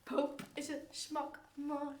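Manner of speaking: stretched slow and strange; slow drawn-out. Acted. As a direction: drag every word out. Mangled phrase drawn out.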